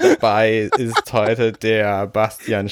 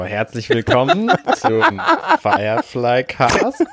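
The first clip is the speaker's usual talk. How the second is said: laughing; 2 semitones higher, slower than usual. Real, not acted. First intro attempt breaks into giggles.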